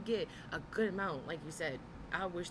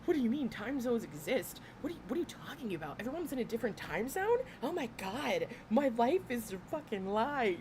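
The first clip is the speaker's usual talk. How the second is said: mock shock; 5 semitones higher, 4 dB louder than usual. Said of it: "I'm sitting here like".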